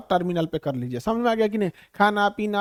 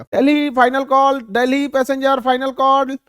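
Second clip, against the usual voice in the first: airport announcer; 3 semitones higher, 5 dB louder than usual. Retold or imitated. Airline staff announcing the final Delhi boarding call, loud. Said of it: "थोड़ा आराम से बोलेगा".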